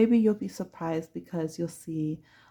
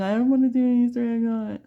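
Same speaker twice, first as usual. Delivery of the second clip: put-on high, louder whiny kid voice; whiny mock crying; 5 semitones higher, 5 dB louder than usual. Pouting kid at the Easter egg hunt, mock crying. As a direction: whine it like a pouting child. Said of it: "You're kinda crying".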